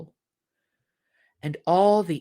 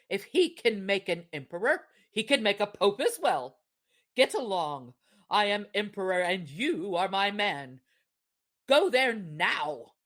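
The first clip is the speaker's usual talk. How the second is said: commanding wife. Acted. Wife orders husband away.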